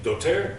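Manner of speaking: "Doter" with a stressed, drawn second syllable, TAIR; variant pronunciation. Shown as a demonstration. Teacher showing accents to class, "Doter" ending in TAIR. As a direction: offer "Doter" as one way to say daughter. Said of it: "say in many different ways".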